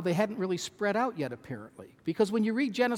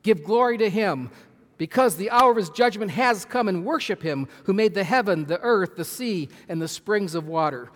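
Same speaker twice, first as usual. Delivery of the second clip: louder, ringing scripture reading; loud proclamation; 2 semitones higher, 6 dB louder than usual. Acted. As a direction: proclaim it like the angel calling out. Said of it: "He says with a loud voice".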